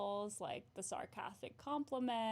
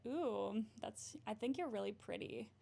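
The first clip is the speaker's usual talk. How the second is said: sarcastic compliment. Retold or imitated. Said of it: "the sarcastic compliment".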